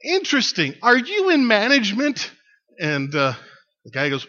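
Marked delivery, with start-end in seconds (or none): 0.0-2.3 high, loud question called upward; acted woman's shouted retort; shouting back. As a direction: holler it up to the man overhead. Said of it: "the woman shouts back".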